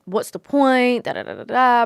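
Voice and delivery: playfully imitating her gloomy self; mock gloomy. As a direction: send up her own doom talk. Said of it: "I can sound a bit negative".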